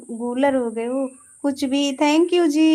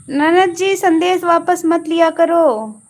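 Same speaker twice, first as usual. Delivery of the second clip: "ननद जी संदेश वापस मत लिया करो" called out louder and higher; loud playful scolding; 4 semitones higher, 5 dB louder than usual. Real, not acted. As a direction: tell her off loudly, half-joking. Scolding a message deleter. (ज़ोर से मज़ाकिया डांट)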